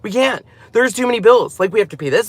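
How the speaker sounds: high, rushed mock panic about money; a hint of a frantic husband; panicked husband. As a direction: imitate the husband fretting over bills, fast and high. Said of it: "He's like".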